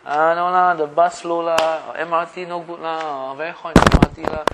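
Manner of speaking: Singlish student chatter. Pretend. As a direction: grumble like a Singapore student, lah.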